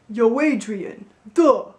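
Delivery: a hint of Rocky, thick and dumb; dopey Rocky. Shown as a demonstration. Coach demonstrating the dopey sound, a hint of Rocky.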